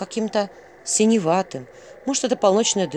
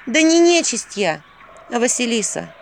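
tired exhale; 5 semitones higher, 5 dB louder than usual. A narrator's reading. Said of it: "устало выдохнула Василиса".

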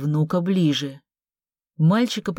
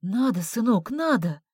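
coaxing; 5 semitones higher, 3 dB quieter than usual. Acted. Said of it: "уговаривала его женщина".

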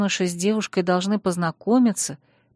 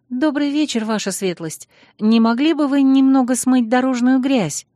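high squeaky timid voice; squeak; 5 semitones higher, 5 dB louder than usual. A narrator's reading. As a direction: squeak it out nervously. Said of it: "пискнула я".

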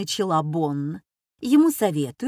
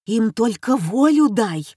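nanny egging on; 2 semitones higher, 5 dB louder than usual. Acted. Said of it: "раззадоривается нянька".

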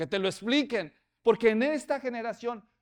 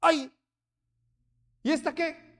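startled; 9 semitones higher, 7 dB louder than usual. Retold or imitated. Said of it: "el hombre despertaba y decía".

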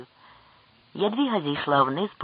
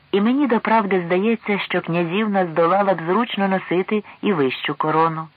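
lifted, louder courtly compliment; a hint of a smile in a raised voice; friendly, smiling; 6 semitones higher, 4 dB louder than usual. A narrator's reading. King compliments the princess on her beauty, friendly and smiling. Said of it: "усміхнувся привітно король до Ядвіги".

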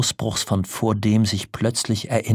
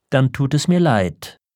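higher, louder, lofty dismissal; haughty refusal; 6 semitones higher, 5 dB louder than usual. A narrator's reading. Wife turns her husband down, haughtily. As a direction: refuse him from on high. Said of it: "hochfahrend lehnte sie ab".

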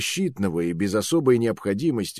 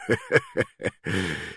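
mocking laugh; 4 dB quieter than usual. Officer laughs mid-taunt.

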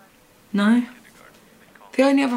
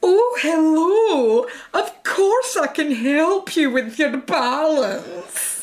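drawn-out, higher hammed-up Scottish voice; slow mock-Scottish lilt, pitched up; put-on Scottish accent; 5 semitones higher, much slower than usual. Shown as a demonstration. Showing off to an unimpressed local, a put-on Scottish voice. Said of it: "I can do a Scottish voice anyway".

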